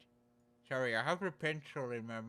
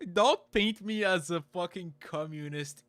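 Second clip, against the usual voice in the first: mock protest; 5 semitones higher, 6 dB louder than usual. Joking protest at chat.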